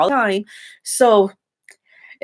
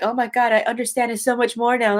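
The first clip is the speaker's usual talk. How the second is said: mocking fake fans; 4 semitones higher than usual. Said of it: "they're like".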